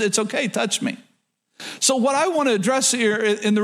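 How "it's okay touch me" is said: soft, lowered, inviting tone; reassuring. Retold or imitated. Jesus reassuring his doubting disciples, softly. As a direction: gently welcome them closer. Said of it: "telling the disciples".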